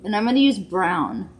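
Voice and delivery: talking through her hand; muffled behind a hand; hand over mouth. Real, not acted. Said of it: "I'm talking through my hand".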